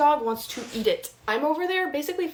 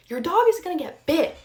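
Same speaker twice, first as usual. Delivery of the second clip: loud, higher frustrated warning at the neighbor; 6 semitones higher, 6 dB louder than usual. Retold or imitated. Yelling at the neighbor to control his dog, frustrated and loud. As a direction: snap the warning out, fed up and raised. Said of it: "I get so frustrated".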